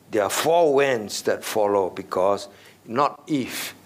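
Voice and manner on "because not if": slow, leaning hard on "not"; stress on NOT. Shown as a demonstration. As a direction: hit "not" slowly, then let "if" fall. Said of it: "it is when".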